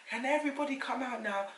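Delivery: high-pitched imitation of a midwife; midwife calling out. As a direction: call out as the midwife clearing the room. Imitates midwife clearing the room.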